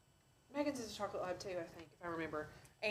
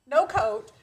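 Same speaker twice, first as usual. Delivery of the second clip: mock exclaim; 3 semitones higher, 8 dB louder than usual. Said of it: "I was like".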